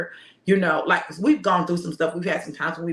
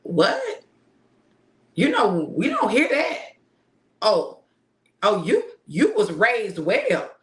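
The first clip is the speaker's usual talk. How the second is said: higher, louder, delighted praise; impressed shopkeeper; 3 semitones higher, 3 dB louder than usual. Retold or imitated. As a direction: gush over his manners. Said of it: "she said".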